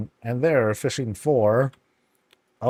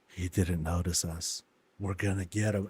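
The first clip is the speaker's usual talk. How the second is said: softer, lower conspiratorial voices; scheming villains; 5 semitones lower, 7 dB quieter than usual. Pretend. Two monsters plotting against him, softer and lower. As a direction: plot like sneaky monsters. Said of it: "these two are like".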